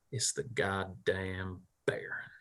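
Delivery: slow whispered swearing; under his breath. Acted. Thurston looks up at Cletos and goes, swearing under his breath. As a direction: whisper it slowly, cursing under your breath. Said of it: "hear him swear under his breath".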